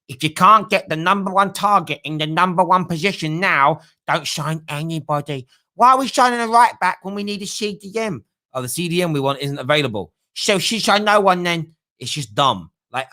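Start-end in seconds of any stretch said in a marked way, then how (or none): 0.1-11.7 mocking fans. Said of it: "Some weird football fans have this kind of thought".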